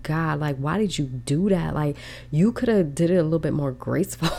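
mock lament. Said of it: "I would just be bawling".

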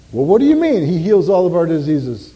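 loud mock-incredulous question; challenging objection. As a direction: push back like a doubting listener. Acted objection from a doubtful listener.

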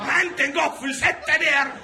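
high, loud barked order of a friendly host; threatening hospitality. Retold or imitated. Ålesund host orders the guest to eat, high mock threatening shout. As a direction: make cake sound like a threat. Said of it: "høres ut som en trussel".

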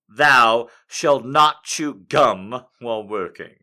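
slow, grave reading of each rule; mock-biblical decree, slow and weighty; solemn commandments. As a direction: intone it like scripture. Reads shop rules as commandments.

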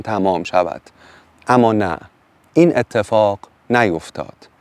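measured storytelling read aloud; story narration. A narrator's reading. Narrator reading the wolf tale to the audience, storytelling voice. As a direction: read the fairy tale to listeners, unhurried.

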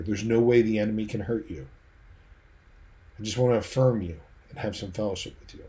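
loving voice. Acted. King assures his invited soldier of his love, lovingly. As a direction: say it tenderly, as to someone cherished. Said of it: "says to you in a loving voice".

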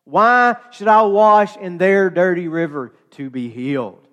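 mock-indignant demand; angry Naaman. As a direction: sneer at the dirty river. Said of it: "is really angry about this".

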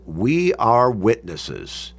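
slow, weighty emphasis on "We"; emphatic reply. Retold or imitated. People answering Joshua again, emphatic. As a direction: draw out each word firmly. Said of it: "The people say again emphatically".

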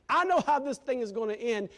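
know hit loud and high again; stress on know. Real, not acted. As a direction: hammer the word know. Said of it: "I know how this thing began".

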